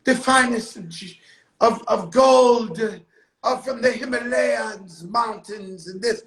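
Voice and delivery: hammed-up fancy salesman; salesman pitch voice. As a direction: oversell it like a jeweler. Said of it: "he's like".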